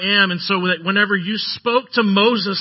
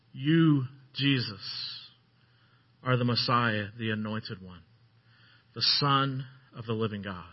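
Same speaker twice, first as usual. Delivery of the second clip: hushed reverent confession; 8 semitones lower, 8 dB quieter than usual. Retold or imitated. Peter confessing to Jesus, hushed and reverent. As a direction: let the words fall quietly, in awe.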